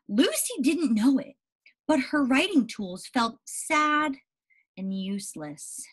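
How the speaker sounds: put-on slow storybook reading to children; unhurried read-aloud for young listeners; story narration. A narrator's reading. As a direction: read it slowly, like to a class. Reads story aloud to class.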